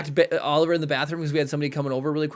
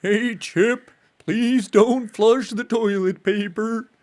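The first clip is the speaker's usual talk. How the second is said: put-on a lower, slow old man voice; 4 semitones higher, slower than usual. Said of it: "the register is too high".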